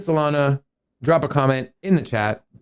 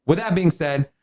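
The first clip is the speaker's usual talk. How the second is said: hyped host; 4 semitones higher than usual. Acted. Host hypes chat for likes.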